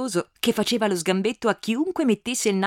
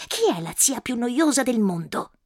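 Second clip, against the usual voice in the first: put-on little girl; 2 semitones higher than usual. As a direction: play a stubborn small girl. Girl's voice continues.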